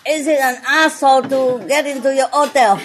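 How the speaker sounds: "hassle" said as "asshole", no H sound; dropped H. Retold or imitated. Imitating a French hotel guest, the H of "hassle" dropped. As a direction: drop the H so "hassle" becomes "asshole". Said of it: "they don't pronounce the H".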